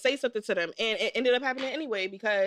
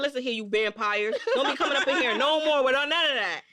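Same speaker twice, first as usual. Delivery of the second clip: stern scolding through laughter; mock scolding. Scolding the rude boys outside, mock stern. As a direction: tell them off like Big Mama. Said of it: "I said".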